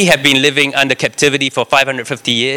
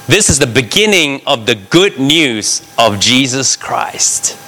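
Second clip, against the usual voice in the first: slow, weighty reading of the verse; slow scripture reading. Acted. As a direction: let each word land. Reads verse slowly.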